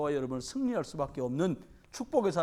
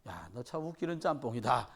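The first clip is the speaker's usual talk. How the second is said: mocking; 8 semitones lower, 7 dB quieter than usual. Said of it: "이렇게 조롱을 해요".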